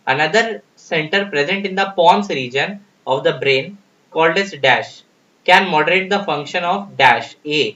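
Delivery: slow, deliberate reading of an exam question. Acted. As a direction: read each word out slowly for the class. Reads question slowly.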